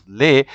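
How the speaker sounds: le said "lay", no S sounded; silent final S. Shown as a demonstration. French teacher explains plural article L E S, le said "lay". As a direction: say le with an open "ay" vowel. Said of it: "it's pronounced le".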